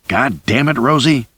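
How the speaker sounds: losing patience, forcing her back; exasperated curse. A narrator's reading. Charlie grabbing Rosie.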